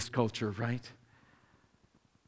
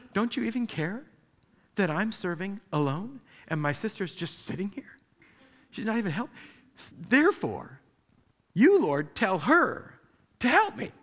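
higher, rising indignant plea to the Lord; frustrated complaint; 4 semitones higher than usual. Retold or imitated. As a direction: voice Martha as the overworked sister demanding help. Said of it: "she turns to the Lord and says".

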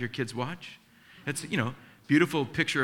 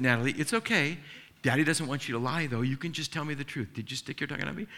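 gentle dad; faster than usual. Retold or imitated. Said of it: "I said".

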